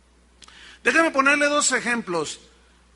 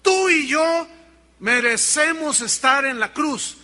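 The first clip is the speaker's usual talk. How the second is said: raised, higher voice on a retold rebuke; imitated scolding yell; 5 semitones higher, 4 dB louder than usual. One crucified thief rebuking the other, imitated yell. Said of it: "le gritaba".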